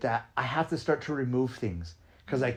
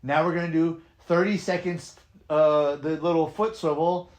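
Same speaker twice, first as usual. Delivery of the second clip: upbeat class cues, called out; dance instructor cueing; 2 semitones higher than usual. Shown as a demonstration. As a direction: lead a class through moves.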